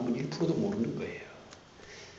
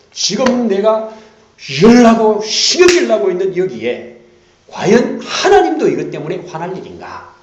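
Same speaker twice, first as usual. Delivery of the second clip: mock outburst; 10 semitones higher, 15 dB louder than usual. Pastor acting out his own irritation for the church, loud and high. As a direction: act out the hot temper, then laugh.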